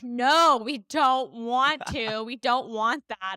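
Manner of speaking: slow, spaced-out insistence; exasperated retold no, drawn out; emphatic refusal. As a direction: lean on each word to turn him down. Retells refusing the pushy man.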